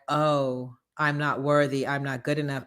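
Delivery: half-hearted whimper of self-doubt; mock defeated. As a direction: sound beaten down and meek. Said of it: "you're going to be like".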